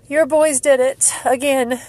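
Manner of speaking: ordinary delivery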